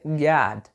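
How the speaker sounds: GOD as "gahd", one syllable; correct pronunciation of God. Shown as a demonstration. Teacher introduces the word for Deus, God correctly pronounced. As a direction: say "God" with an open AH and final D. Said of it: "Se você falar God".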